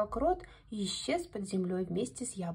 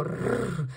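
wolf's growl; 5 semitones lower, 3 dB louder than usual. A narrator's reading. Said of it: "зарычал волк".

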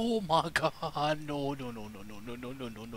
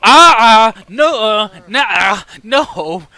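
startled cries; 17 dB louder, much slower than usual. Real, not acted. Jump scare, loud cries.

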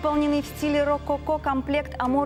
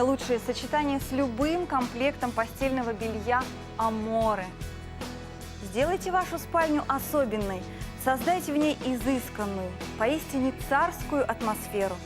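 infomercial. Acted. TV shopping ad read.

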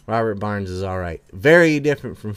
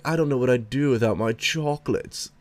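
mock Pelosi voice.

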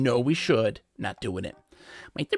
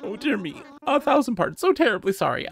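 high, slow, drowsy owl voice just woken; a fussy old owl yawning awake; sleepy owl curator; 11 semitones higher, 6 dB louder, slower than usual. Acted. Owl curator woken by a visitor, high sleepy voice.

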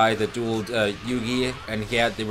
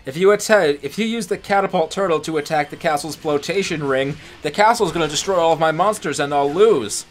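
raised, louder cartoon villain voice; hammy anime villain; 5 semitones higher, 5 dB louder than usual. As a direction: ham up a smug duelist. Acting out anime villain's boast.

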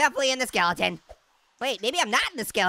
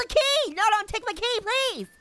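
mock pleading; 8 semitones higher than usual. Key being taken from player.

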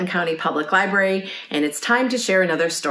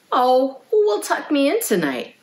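plaintive little lamb, pitched up; a touch of woeful pleading, high; sad; 8 semitones higher than usual. A narrator's reading. Lamb who cannot find his mother at bedtime, sad. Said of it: "he asked sadly".

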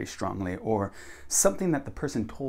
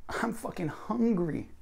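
high, slow stress on "hungry"; emphatic; 10 semitones higher, 3 dB quieter, slower than usual. Shown as a demonstration. Teacher demonstrates swearing for emphasis, high and drawn-out "hungry". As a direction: pitch up and stretch "fucking hungry". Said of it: "increase how emphatic your sentences are".

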